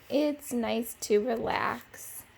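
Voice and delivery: slow, contented; easy relaxed drawl; relaxed sigh. Acted. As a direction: sink into the chair. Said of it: "he said".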